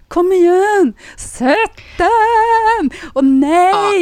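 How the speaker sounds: high, loud sports-fan yelling; re-enacted screaming. Fan reliving a penalty shoot-out, screaming high and loud. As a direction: yell at the TV in drawn-out cries. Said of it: "Alltså, jag skrek".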